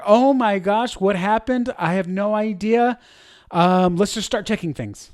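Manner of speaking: a flustered leader whose stream just died; panicked. Shown as a demonstration. Panicking leader voice. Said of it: "One is panic".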